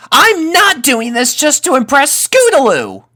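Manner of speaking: put-on high, loud protesting kid; indignant young colt. A narrator's reading. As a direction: snap back defensively. Rumble protests, glaring.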